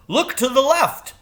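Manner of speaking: very high bird calling back; crow voice. A narrator's reading. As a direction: call over your shoulder as the crow. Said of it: "said Jeremy".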